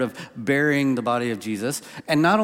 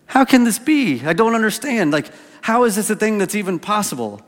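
high, louder, half-laughing disbelief; laughing wonder; 7 semitones higher, 4 dB louder than usual. Retold or imitated. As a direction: laugh through the baffled question, high and louder. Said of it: "filled with a little bit of wonder".

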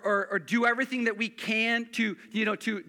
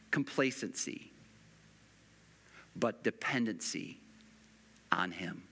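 hushed pulpit reflection with long pauses; hushed preaching; 10 semitones lower, 5 dB quieter than usual. Acted. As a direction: pull them in close with a quiet voice. Pastor drops into hushed reflection.

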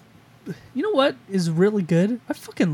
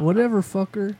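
bad British accent; 3 semitones higher than usual. Shown as a demonstration. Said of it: "shittiest British accent".

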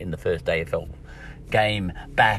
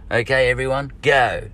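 lightly put-on Australian accent, raised; 4 semitones higher, 5 dB louder than usual. Editor rallying the newsroom, mild mock Australian accent. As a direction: play up the Australian accent a little. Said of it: "How did I go with my Australian accent".

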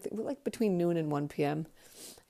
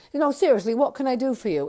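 higher, louder, exasperated demand; impatient manager; 7 semitones higher, 5 dB louder, faster than usual. Retold or imitated. Manager pressing the uninvited fan, mock exasperated. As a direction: drop the sarcasm and press impatiently. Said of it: "Looked pretty angry".

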